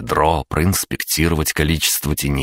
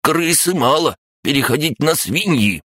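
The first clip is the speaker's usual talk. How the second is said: snappy clicking crab; 12 semitones higher than usual. Acted. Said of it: "щелкая клешнями".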